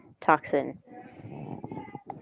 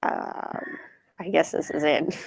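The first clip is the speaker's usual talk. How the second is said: deep voice; 3 semitones lower, 5 dB quieter than usual. Shown as a demonstration. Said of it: "leave this voice".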